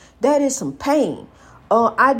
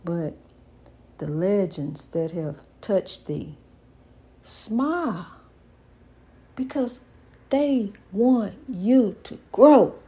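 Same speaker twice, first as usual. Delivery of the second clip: slow, deliberate spoken-word delivery; measured and solemn, with long pauses between phrases; poetic tribute; 2 semitones lower, 3 dB quieter than usual. Acted. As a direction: rise and fall like a slow eulogy.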